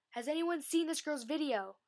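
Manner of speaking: excited announcing. Retold or imitated. Jared hushes the crowd.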